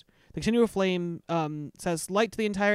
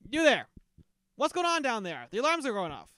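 guard calling down; 4 semitones higher than usual. Acted. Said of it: "prison guard calls down from the surveillance tower and says".

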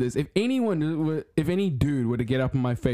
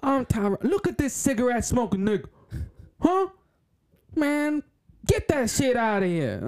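high-pitched, exaggerated Black American voice; mock Black American accent; 10 semitones higher than usual. Tyrone grumbling at someone, mock Black American accent. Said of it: "God, I love accents".

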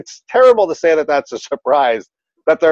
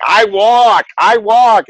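put-on toddler voice; 7 semitones higher, 4 dB louder, much slower than usual. Toddler voiced insisting on walking.

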